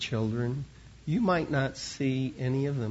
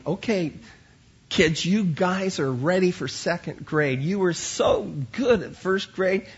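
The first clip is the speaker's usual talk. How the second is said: cheery teacher sending the class off, pitched up; upbeat encouragement; 3 semitones higher, 4 dB louder than usual. Retold or imitated. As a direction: cheer the kids on to the next grade. Teacher sends class off to second grade.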